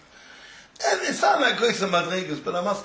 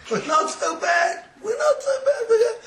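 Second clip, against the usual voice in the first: emphatic reassurance; 5 dB louder than usual. Acted. Rebbe reassuring, building emphatic.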